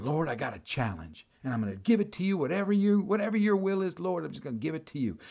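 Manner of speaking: light, yielding plea; retold morning prayer. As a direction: offer it up softly, re-enacting a prayer. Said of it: "start the day off by going".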